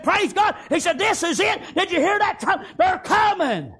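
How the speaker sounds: high, loud, laughing with joy; joyful shout. Retold or imitated. Woman telling the family the trumpets have come, laughing and shouting. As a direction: cry it out half laughing with delight.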